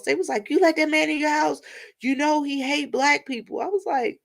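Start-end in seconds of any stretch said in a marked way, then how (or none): 0.5-3.6 retold shock. Friends shocked she lets him in.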